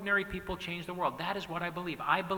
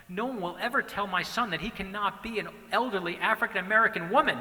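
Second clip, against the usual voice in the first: louder, higher insistent declaration, peaking on the last "No one"; emphatic vow; 4 semitones higher, 6 dB louder than usual. Retold or imitated. To his wife, about their son: a loud, emphatic vow. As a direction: declare it like a proud father's vow. Father's retold reply to wife.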